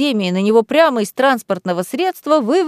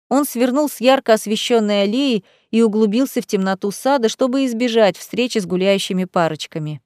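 plain reading voice

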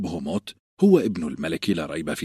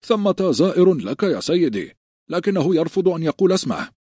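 raised high call from outside; calling through the door; 10 semitones higher, 4 dB louder than usual. Acted. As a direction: call out loudly to your lord beyond the door. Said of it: "وسمع هاروين ينادي".

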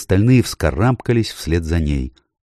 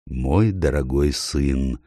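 tender; 3 semitones lower, 3 dB quieter, slower than usual. Acted. Aslan greets Peter tenderly.

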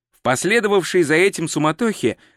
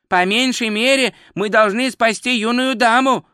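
higher, firm tourist voice; 7 semitones higher than usual. Acted. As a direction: insist firmly, pitched up. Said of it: "твёрдо сказал Два Цветок".

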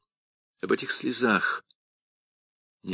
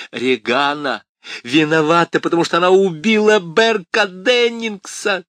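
высокий громкий визг; визжи в отчаянии; shrieking; 9 semitones higher, 7 dB louder than usual. A narrator's reading. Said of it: "завизжала Крис". (визг)

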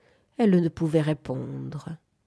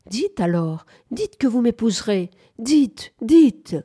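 tender pleading that climbs higher and louder; tender insistence; 5 semitones higher, 6 dB louder than usual. A narrator's reading. Young suitor begging her to say she will marry him, tender insistence. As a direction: press for an answer, rising with each plea. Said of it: "Il insistait tendrement".

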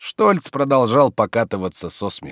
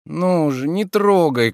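higher-pitched, meek plea; 8 semitones higher, 3 dB louder, slower than usual. A narrator's reading. Sleepy master asking servant to stop, meek. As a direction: beg gently to be left alone. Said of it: "кротко заговорил Илья Ильич".

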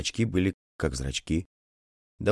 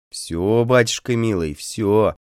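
sugary sing-song; 4 semitones higher, 5 dB louder, slower than usual. Acted. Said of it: "пела бабочка с сдобным голосом".

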